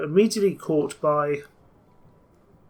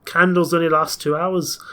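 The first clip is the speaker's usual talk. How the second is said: put-on Yorkshire accent; 3 dB louder than usual. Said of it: "I cannot keep up this accent".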